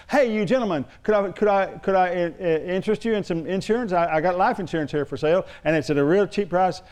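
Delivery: mildly pushy sales pitch; voicing an aggressive kiosk seller; pushy saleswoman. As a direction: hail them eagerly, then pitch. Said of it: "he said she was real aggressive".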